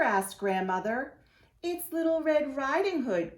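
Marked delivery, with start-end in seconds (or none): 1.6-3.4 put-on wolf faking a higher, sweet little girl voice. Wolf pretending to be the girl at Grandmother's door, high and sweet. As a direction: pitch it up like a small girl at the door. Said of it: "in a little girl voice".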